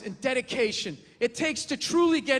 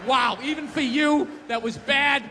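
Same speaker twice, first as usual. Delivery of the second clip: self scolding. Retold or imitated. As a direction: berate yourself in the mirror. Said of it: "you looked up, you're like".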